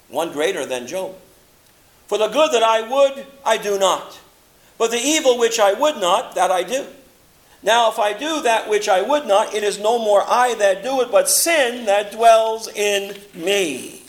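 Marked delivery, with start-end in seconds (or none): 2.1-14.0 loud, driving scripture recital; impassioned recital. Acted. Preacher booming Paul's confession to the congregation, loud and driving. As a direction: preach Paul's words out with force.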